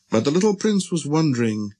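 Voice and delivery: ordinary delivery, nothing marked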